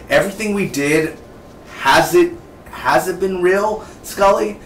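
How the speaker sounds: a mock-anguished Mulder asking Scully; imitating Mulder. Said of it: "He's like".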